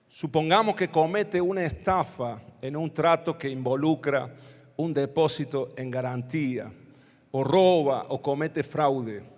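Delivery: measured Bible reading, with pauses; scripture reading. Acted. Preacher reads Leviticus to the congregation, measured scripture reading. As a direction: read the passage aloud, phrase by phrase.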